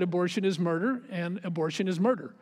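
quiet, gentle and firm; gently. Retold or imitated. Pastor answering the angry doctor, gentle and quiet. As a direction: say it softly but don't back down. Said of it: "I said it gently".

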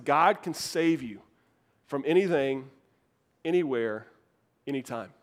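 measured, low and spaced out phrase by phrase; deliberate emphasis. Real, not acted. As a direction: let each phrase sink in, dropping low on ANYTIME. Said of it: "let this sink in".

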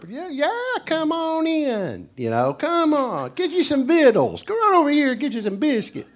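high, folksy, welcoming country voice; hospitable Tennessee host. Retold or imitated. Tennessee host welcoming a stranger to stay, high and folksy. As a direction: play an overeager Tennessee host.

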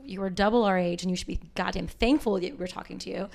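retold telling off. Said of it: "And I'm like".

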